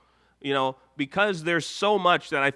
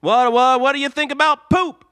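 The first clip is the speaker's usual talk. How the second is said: higher and louder, stammering tease; mock Lapis voice; 8 semitones higher, 7 dB louder than usual. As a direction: Lapis egging Ruby on about poop.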